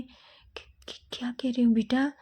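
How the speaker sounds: stammered, breathless whisper; mother hears her son's heartbreak, whispering; shocked whisper. Acted. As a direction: whisper it in disbelief.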